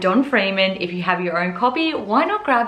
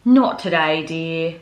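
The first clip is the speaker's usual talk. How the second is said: sighing mother; 4 semitones lower, slower than usual. Acted. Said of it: "her mother sighed".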